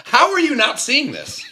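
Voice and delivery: high, drawn-out disbelief with a laugh in it; incredulous. Retold or imitated. Man retelling his reply to a drunk kid, laughingly incredulous. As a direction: pitch it way up, astonished and amused.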